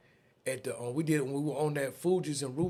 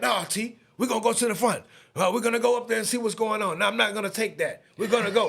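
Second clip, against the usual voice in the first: higher, louder, determined; Bird insisting; 6 semitones higher, 5 dB louder, faster than usual. Retold or imitated. Bird refusing to back off, higher and insistent. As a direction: insist on going to the front. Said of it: "Bird like".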